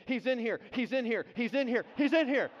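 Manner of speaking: rapid-fire repeats climbing in pitch and volume; panicked repeating. Retold or imitated. Preacher re-enacts himself shaking in the van, panicked repeating. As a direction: retell a frightened chant, building each time. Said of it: "I started repeating over and over again".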